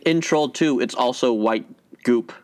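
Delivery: talking with mouth full; words round a bite of cake. Real, not acted. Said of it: "my mouth is full right now".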